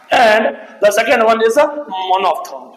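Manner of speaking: drawn-out, deliberate English announcement; slow down to land the term; slow dictation. Real, not acted. Teacher recapping the second vowel type for students, slow dictation.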